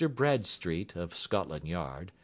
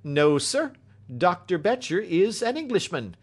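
high, loud, jovial station master; merry, raised character voice; hearty amusement; 11 semitones higher, 7 dB louder than usual. A narrator's reading. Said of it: "station master laughed heartily".

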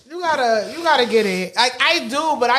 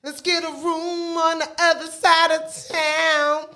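slow it down to woo; mock seductive; 4 semitones higher, slower than usual. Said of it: "I would be like".

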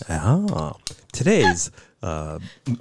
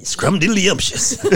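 laughing relish; 8 semitones higher, slower than usual. Pretend. Mock lustful exclamation.

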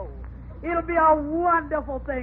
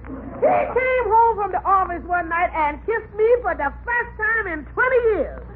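outraged wail; 6 semitones higher, 3 dB louder than usual. Acted. Mother recounts shocking kiss.

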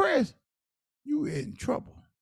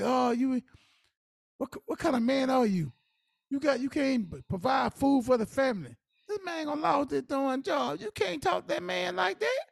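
mock scolding; 5 semitones higher than usual. Partner berating a man who can't provide for family, mock scolding.

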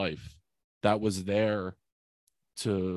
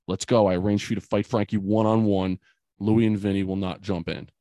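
louder, firm order from a father; insistent repeat; 6 dB louder than usual. Retold or imitated. Father repeats his order to frozen son, insistent. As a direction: imitate a dad pressing the order, louder. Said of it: "he says it again".

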